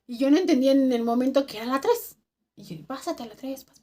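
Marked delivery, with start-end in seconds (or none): 2.9-3.8 soft, hushed imitation of the call; low-volume radio message. Coworker radioing Omar to move over, said softly. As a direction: keep it down, as if secretly radioing. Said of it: "pero así bajito".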